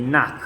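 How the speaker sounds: नाक said with a rough ch from the throat at the end; throaty ch sound. Shown as a demonstration. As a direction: end नाक with a scraping German ch from the back of the throat. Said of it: "गले में से sound निकलता है उस तरीके से".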